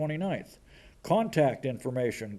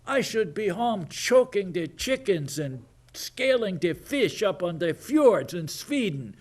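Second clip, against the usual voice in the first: mock Swedish girl; 4 semitones higher than usual. Mocking the Swedish activist.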